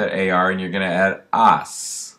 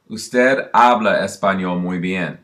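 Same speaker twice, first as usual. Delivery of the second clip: slow model sentence. Shown as a demonstration. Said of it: "If you wanna say".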